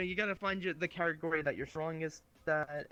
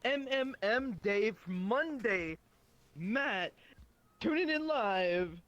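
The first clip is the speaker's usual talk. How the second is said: boring streamer parody; 6 semitones higher, slower than usual. Pretend.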